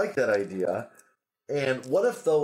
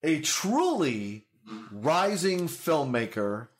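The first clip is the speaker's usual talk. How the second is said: higher, stretched-out announcer introduction; show announcer; 6 semitones higher than usual. Acted. Introduces guest as show host.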